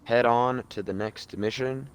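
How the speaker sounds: lightly voiced seventies announcer. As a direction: announce the departure like a seventies showman. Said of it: "In, like, a seventies announcer voice".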